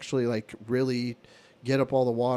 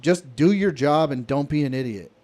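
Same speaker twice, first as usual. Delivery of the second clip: retold heated snap; 5 dB louder than usual. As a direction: lay into the coworker again as you retell it. Heated argument with lazy coworker.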